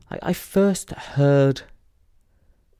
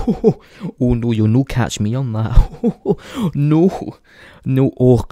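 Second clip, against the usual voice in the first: dad's weird character. Retold or imitated. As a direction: play a silly, protesting dad, voice swooping up. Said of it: "he turns into this weird character".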